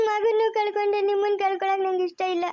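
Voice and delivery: tearful, breaking on the loss; crying grief. Acted. Wife tells husband she already lost their son, crying. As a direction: sob out the grief.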